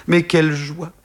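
high, elated exclamation; bursting joy. A narrator's reading. Son realising he has a family, high exultant joy. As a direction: let the delight leap up.

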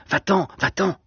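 high, frightened stammer; Va-t'en, va-t'en cried high and scared; stammered in fear. A narrator's reading. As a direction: push him away in a panicked high voice.

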